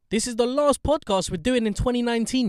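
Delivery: high, excited show-opener voice; hyped host announcement. Real, not acted. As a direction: announce it big, pitched right up. Host announces the last podcast.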